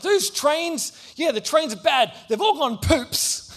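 high, overeager try-hard chatter; fake tough kid. Nerdy boy tries to impress the bully, high and eager. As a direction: try too hard to sound cool.

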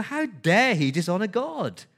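indignant How dare he; indignant outrage. Acted. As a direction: let the outrage peak on How. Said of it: "That's the tone there".

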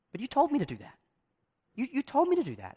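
defensive colleague, lightly whiny; mock protest. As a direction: play the wronged worker, pleading. Retold protest after a mistake.

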